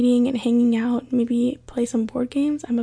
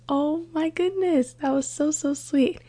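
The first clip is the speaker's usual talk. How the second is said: gushing; 4 semitones higher than usual. Retold or imitated. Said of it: "And I'm like".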